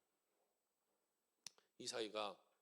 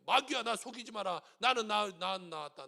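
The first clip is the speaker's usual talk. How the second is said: firm command; 7 dB louder than usual. Shown as a demonstration. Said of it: "명령하는 거예요".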